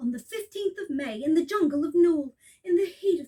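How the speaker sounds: plain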